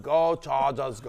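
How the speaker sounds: lightly voiced Austrian strongman impression; hint of an action-star accent; Arnold Schwarzenegger. Showing co-host the famous clip, light impression. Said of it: "The clip of Arnold Schwarzenegger".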